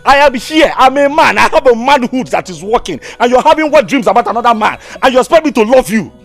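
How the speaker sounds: jealous outburst. Acted.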